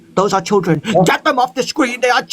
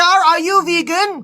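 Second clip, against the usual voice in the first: drawn-out, higher interrogation; slow suspicious demand; 8 semitones higher, much slower than usual. Real, not acted. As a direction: press him, word by word. Interrogating the stranger slowly.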